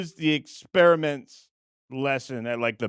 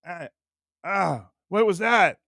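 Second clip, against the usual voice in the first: higher mock yelps of pain; Frank Rizzo; 6 semitones higher, 3 dB louder, slower than usual. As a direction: play hurt and bewildered, hammed-up. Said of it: "Rizzo's like".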